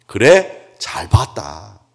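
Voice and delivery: lightly voiced God, brief question then slow approval; God answering Jeremiah. God approving what prophet Jeremiah saw, lightly acted divine voice. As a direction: stretch out the approval, a touch solemn.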